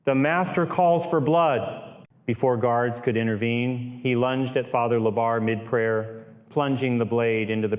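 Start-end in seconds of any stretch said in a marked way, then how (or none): 0.0-2.1 higher, slow, drawn-out cry; understated possessed man's scream, pitched up; mild scream. A narrator's reading.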